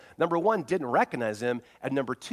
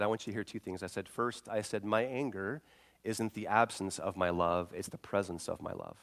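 tender father; 3 semitones lower, 3 dB quieter than usual. Retold or imitated. Father comforting crying daughter.

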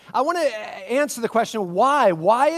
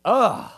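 disgusted ugh; 2 semitones higher, 3 dB louder than usual. Retold or imitated. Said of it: "had this reaction like".

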